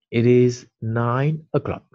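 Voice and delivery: slow, each word laid out for pupils; slow model repeat. Shown as a demonstration. Teacher repeats the sentence slowly for the class. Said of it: "Vous l'avez en vert".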